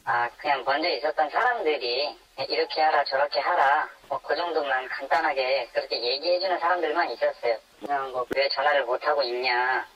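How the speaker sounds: anonymized voice filter for protection; voice-altered. Real, not acted. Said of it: "음성 변조로 진행되는".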